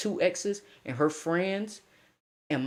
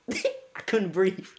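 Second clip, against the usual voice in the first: slow, laughing through it; 4 semitones higher, slower than usual. Retold or imitated. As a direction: drag it out between laughs.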